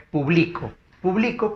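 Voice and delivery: "publico" with the weight on BLI; stress on penultimate syllable. Shown as a demonstration. Teacher showing where the force falls, publico stressed on BLI. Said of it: "¿dónde fuerza de voz?".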